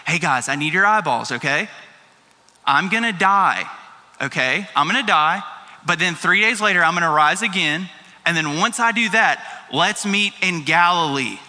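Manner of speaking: lightly acted, measured plain statement; very plain telling. Jesus speaks to his disciples at supper, very plainly. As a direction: spell it out plainly, pausing to check they follow. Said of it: "says very plainly".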